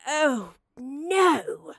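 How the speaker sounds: loud, high, swooping cry of dismay; horrified exclamation, voice leaping up. Acted. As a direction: realise with alarm that it's gone. Discovers her map is gone.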